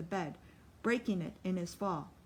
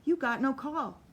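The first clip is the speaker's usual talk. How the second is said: louder, pleading protest; urgent protest; 6 semitones higher, 5 dB louder than usual. Acted. Lute protesting loudly as Solly attacks. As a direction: push back hard with the words.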